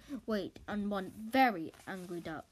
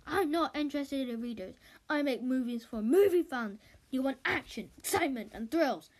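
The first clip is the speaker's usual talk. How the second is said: louder, forceful rant; director's rant; 2 semitones higher, 5 dB louder than usual. Acted. Director ranting at Andy about movie fans, loud. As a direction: lay down the law to the narrator.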